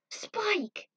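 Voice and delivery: high, loud call of his name; crying out. Acted. Julia sees Spike lying still, loud cry. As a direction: call out to him with all your heart.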